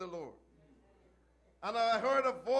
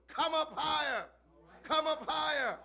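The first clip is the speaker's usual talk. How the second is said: lightly raised, higher echoing refrain; a hint of an echo, raised and high; echoed call; 5 semitones higher than usual. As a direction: answer back like a chorus of prophets. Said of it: "the prophets echoed".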